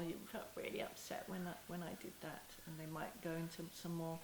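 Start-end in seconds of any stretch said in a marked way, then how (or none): 0.0-2.4 softer, near-whispered gentle reminder. Shown as a demonstration. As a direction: breathe it gently to the child. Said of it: "to remind them in case".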